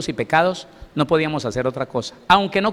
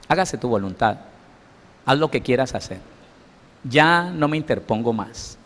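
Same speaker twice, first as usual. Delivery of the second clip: God letting go; 2 semitones lower than usual. Retold or imitated. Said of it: "el Señor da un paso de costado y le dice".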